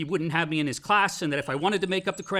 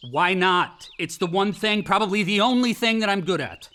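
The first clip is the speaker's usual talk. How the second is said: louder, bitter and challenging; defiant anger; 4 semitones higher, 5 dB louder than usual. Acted. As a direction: throw it back at him, spoiling for a fight. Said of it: "please don't pitch a fit".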